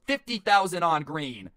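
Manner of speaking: slow, high, bold announcement; mock confident. Gambler placing a huge bet like a movie hero, slow and confident. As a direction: say it like a James Bond high roller. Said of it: "And he says it with confidence".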